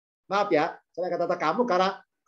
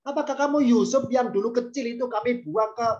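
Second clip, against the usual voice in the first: raised-pitch scornful question; pitched-up, demeaning challenge; coarse, belittling; 4 semitones higher than usual. Acted. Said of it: "gitu kasarnya ya".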